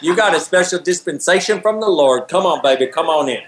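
lightly mocked Southern church-friendly officer; playful Bible Belt cop imitation; Southern traffic cop. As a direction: wave the faithful through with a Southern lilt. Plays police waving churchgoers through.

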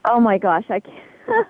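laughing. Real, not acted. Asked for ditzy blonde impression.

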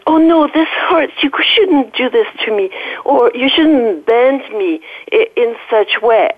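a hint of the hurting body pleading; complaining inner animal. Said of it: "And then the little animal says".

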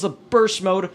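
talking while chewing gum; words round a wad of gum. Real, not acted. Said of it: "This gum in my mouth is not helping".

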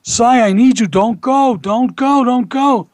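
high-pitched, urgent retold begging; imitated pleading yell. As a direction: plead insistently, imitating a desperate wife. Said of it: "was yelling at him".

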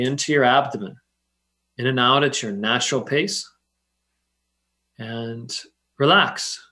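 calm them down, unhurried and gentle. Acted. Leads a guided meditation.

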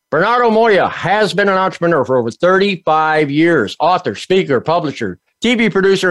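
lively host's read-out guest bio; announcer introduction. Acted. Host introducing Bernardo Moya to the audience, announcer style. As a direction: present the guest like an event announcer.

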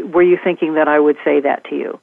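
"Were you thinking that I would say that to you?" even, coming down at the end; gentle falling question. Shown as a demonstration. Speaker shows the preferred phrasing, gently falling. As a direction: ask it neutrally, no word punched. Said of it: "I wanna be able to say".

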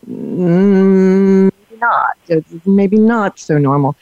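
long drawn-out "mm", then tentative; doubtful wife. Retold or imitated. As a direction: gently voice a wife's doubt, stalling first. Retelling wife's doubtful reaction.

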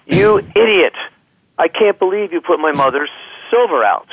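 sharp high angry outburst, then settling; retelling the wife snapping at her husband; furious wife. Retold or imitated. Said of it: "and she says".

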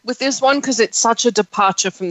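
talking through orange; chewing between words; mouth full. Real, not acted. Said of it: "Sorry, I'm eating an orange".

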